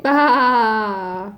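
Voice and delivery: crying baa sound; sheep bleat. Shown as a demonstration. Parent demos sheep bleat.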